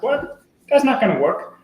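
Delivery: high, loud mock child squeak of disbelief; disbelieving kid. Storyteller voicing a five-year-old brushing off advice, high and incredulous. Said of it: "He's like".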